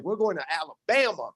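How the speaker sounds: lightly put-on Southern twang on Alabama; mock Alabama accent. First-time visitor telling the crowd where he's headed, mock Alabama accent. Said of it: "my accent changed".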